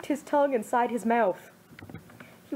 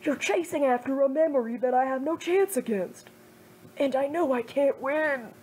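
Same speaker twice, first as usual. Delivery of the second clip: put-on raised, earnest young man's voice, worried and hurt; a friend begging Naruto to stop, pleading and raised; Kiba pleading; 3 semitones higher than usual. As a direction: plead with him not to destroy himself, fading to a hurt hush at the end. Kiba confesses feelings.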